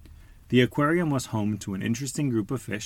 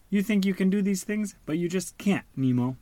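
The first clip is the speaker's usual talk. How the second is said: scolding father; 9 semitones higher than usual. Acted. Worried dad scolding son.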